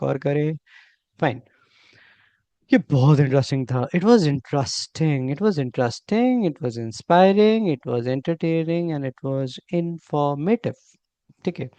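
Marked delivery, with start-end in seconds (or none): 4.0-10.7 slow, clear model sentences for learners; slow teaching demo. Shown as a demonstration. Teacher slowly models phrases for Hindi-speaking students. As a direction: spell it out slowly so students can repeat. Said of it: "ऐसे आप आसानी से बोल सकते हो".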